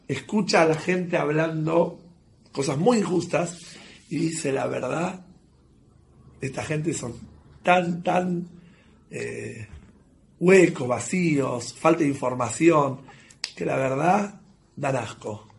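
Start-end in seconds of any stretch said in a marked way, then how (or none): 4.5-15.5 soft, slow, disgusted dismissal. Retold or imitated. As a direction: let the disgust slow each word down. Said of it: "del asco que le dio". (con asco, despacio y en voz baja)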